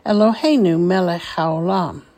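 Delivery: measured blessing with long pauses between phrases; deliberate teacher's model of a blessing; slowly, phrase by phrase. Shown as a demonstration. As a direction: recite each phrase carefully for repeating. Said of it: "I will say it slowly".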